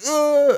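sharp high "ah" after a slap; high yelp of pain. Retold or imitated. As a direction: yelp like a slapped kid. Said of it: "Y yo dije".

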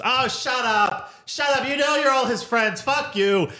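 mock Gervais jab. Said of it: "And he goes".

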